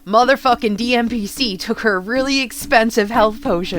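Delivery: loud, high angry rant; loud indignant outburst. Retold or imitated. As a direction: rage about the stolen potion. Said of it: "Jessica is like".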